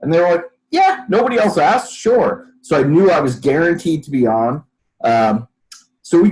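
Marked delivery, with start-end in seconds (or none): 0.7-2.5 quoted lightly up high, casual and offhand; breezy producer reply. Retold or imitated. Producer telling the guest she's in, breezy and high. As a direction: toss it off like a producer with an empty schedule.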